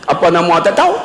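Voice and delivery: Kedah question with a rising end; Kedah dialect. Shown as a demonstration. Preacher showing how Kedah people ask a name, Kedah dialect. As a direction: ask it as Kedah folk do, lifting "tahu". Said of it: "Orang Kedah".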